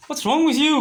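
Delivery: high-pitched mock scolding; indignant seller. Seller rebuking the customer who called, indignant. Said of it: "And he's like".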